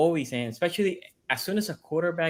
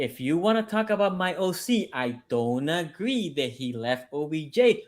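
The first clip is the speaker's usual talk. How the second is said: slow, deliberate repeat. Shown as a demonstration. Restating his point to a co-host who questioned him, slowly and deliberately. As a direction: spell it out slowly, phrase by phrase. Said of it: "let me say it slower".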